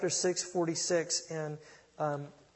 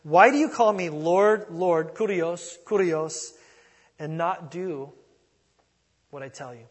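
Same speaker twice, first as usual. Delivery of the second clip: slow, louder, weighty reading of Jesus's words; Jesus's words read aloud; 11 dB louder, slower than usual. Acted. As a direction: read each word with weight. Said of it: "He says in verse forty-six".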